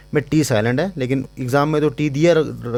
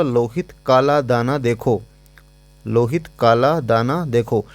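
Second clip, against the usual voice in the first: lisping guy; slower than usual. Retold or imitated. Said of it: "मैं खुद तोतला बोल रहा हूँ".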